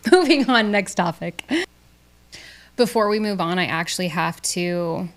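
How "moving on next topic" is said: loud. Acted. Abruptly changing subject after laugh.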